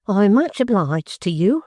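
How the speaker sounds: barely holding back rage; suppressed fury. A narrator's reading. Mrs Jiniwin to her son-in-law, bitter suppressed fury. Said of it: "a vehement desire to shake her matronly fist".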